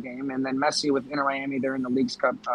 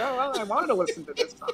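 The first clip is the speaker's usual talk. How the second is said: whiny voice; 11 semitones higher than usual. Retold or imitated. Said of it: "I was like".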